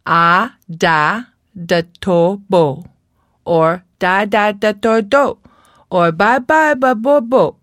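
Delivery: put-on child's babble. Shown as a demonstration. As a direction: babble like a speech-delayed child. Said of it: "he might say".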